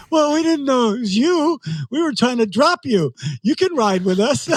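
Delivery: high, apologetic, slightly whiny; sheepish triathletes. Retold or imitated. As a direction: explain it high and a bit embarrassed.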